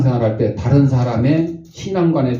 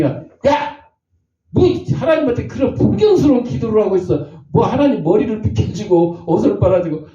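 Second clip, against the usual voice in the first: higher, sharp mock telling-off; scolding; 5 semitones higher than usual. Moses scolds the shepherd boy for his prayer, mock anger. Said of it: "모세가 그 기도를 들으니까".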